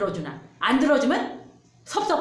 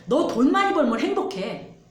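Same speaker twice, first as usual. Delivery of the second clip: louder, higher coaxing devil voice; devil tempting; 5 semitones higher, 6 dB louder than usual. Acted. Pastor voicing the devil tempting Jesus with money, coaxing and loud. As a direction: coax him like a tempting devil. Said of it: "마귀가 말해요".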